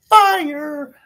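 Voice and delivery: "fire." shouted high and loud; hyped shout. Shown as a demonstration. Hyping his site to viewers, with a high, loud shout. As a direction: punch "fire." like a hype man. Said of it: "is fire".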